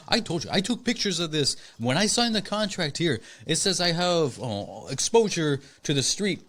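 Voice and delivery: put-on high, indignant African accent; imitated African accent. Owner complaining to mail carrier, imitated African accent. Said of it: "African accent".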